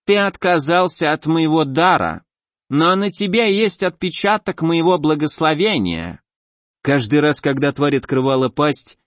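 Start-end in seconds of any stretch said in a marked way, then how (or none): 0.0-6.2 squelching creature voice. Acted. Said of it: "чавкающим голосом".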